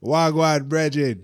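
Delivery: put-on London slang accent. Host retries the British accent after being told off by the co-hosts. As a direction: drawl a Londoner's hello. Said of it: "That's better".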